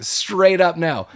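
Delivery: a hammed-up Satan savoring the no; mock devil turning down the deal; smug devil voice. Podcaster voicing the devil Beazle.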